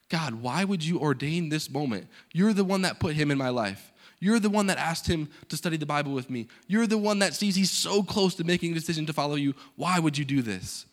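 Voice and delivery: mildly angry, retold challenge to God. Missionary questioning God over losing his student, retold mild anger. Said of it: "I was angry with God".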